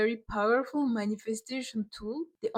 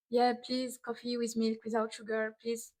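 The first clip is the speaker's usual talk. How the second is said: robot voice. Retold or imitated. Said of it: "speaking like a robot".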